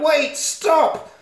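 high-pitched mock cry to halt; calling after someone. Calling after the runaway girl.

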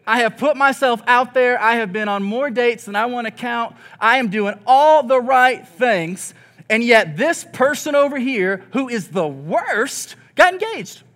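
exasperated rant. Retold or imitated. Single friend ranting about dating, exasperated and rising. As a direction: vent the unfairness until it breaks high.

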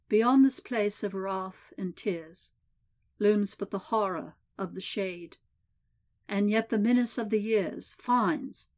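measured, solemn poem reading; steady grave verse delivery; poem recitation. A narrator's reading. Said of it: "The warden cleared his throat and began".

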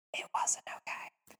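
slow, hushed whispered aside; dramatic whisper; ominous whisper. Real, not acted. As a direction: whisper it slowly as a grim reveal. Ominous aside undercutting her reassurance.

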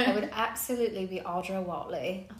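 lightly put-on British accent. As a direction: introduce yourself as a mock Brit, British accent. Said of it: "come across with that accent".

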